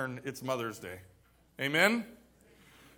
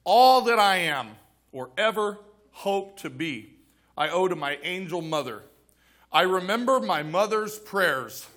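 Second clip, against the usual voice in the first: slow down and let each phrase land; slower, deliberate reread. Shown as a demonstration. Pastor rereads the quote to the congregation, slowly and deliberately. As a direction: reread it slowly, weighing the words. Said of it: "I'm gonna read 'em again".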